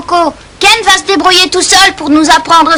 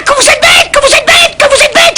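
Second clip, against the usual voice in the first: teasing laughter; 8 semitones higher, faster than usual. Acted. Teasing them as foolish.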